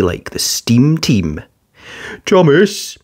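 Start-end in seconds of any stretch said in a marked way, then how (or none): 2.3-3.0 high called name; a small digger calling to a friend. Acted. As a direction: call out to him across the track. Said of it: "Alfie called out".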